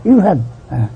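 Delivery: a mother scoffing at an excuse; hammed-up disbelieving mother; mock scolding mother. Mother refuses to believe him.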